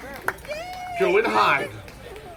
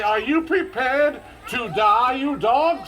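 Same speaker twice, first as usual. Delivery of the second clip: slower, drawn-out dramatic challenge; 4 semitones higher, slower than usual. Shown as a demonstration. Showing the kids the dare again, slow and dramatic. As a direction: ham up the dare with all the drama. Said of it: "What the heck was that?".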